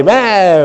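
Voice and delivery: drawn-out mock baby bawl; a storyteller's quick crying-baby noise; imitated baby wail. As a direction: imitate a kinky baby's "mää" cry. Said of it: "han skriker och skriker".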